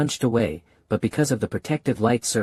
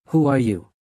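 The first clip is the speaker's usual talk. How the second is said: angry question; faster than usual. A narrator's reading. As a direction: snap the question at him. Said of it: "The monster angrily asked".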